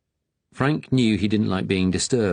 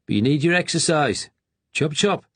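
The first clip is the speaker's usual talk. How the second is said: bossy hurry; 9 semitones higher than usual. Acted. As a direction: hurry him along. Attendant hurrying patient.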